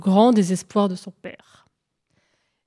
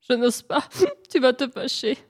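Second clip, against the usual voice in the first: timid little whine; whimpering; 3 semitones higher than usual. Acted. Hare hesitates before the sun, whimpering. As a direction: falter pitifully, as if afraid to ask. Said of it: "en geignant".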